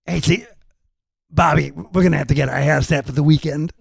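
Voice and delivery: lightly voiced rock musician impression; slightly put-on voice for a rocker fussing over hair; a rock guitarist. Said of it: "my imitation of a rock guitarist".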